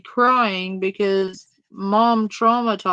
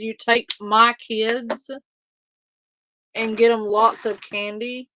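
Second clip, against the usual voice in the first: imitating the woman. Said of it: "how she says".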